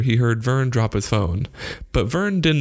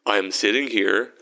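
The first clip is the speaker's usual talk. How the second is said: slow, measured phone reply; unhurried, slightly strained words; slowly; slower than usual. A narrator's reading. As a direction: draw it out, as if distracted. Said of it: "Vern said slowly".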